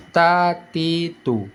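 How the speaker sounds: thin, light T in "Ta, ti, tu". Shown as a demonstration. Teacher showing the thin letter, "Ta, ti, tu" with tongue root down. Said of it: "pangkal lidah kita turunkan ke bawah".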